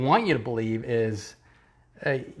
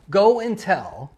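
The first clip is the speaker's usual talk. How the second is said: mock command. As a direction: parody the great commission. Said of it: "It's go and tell".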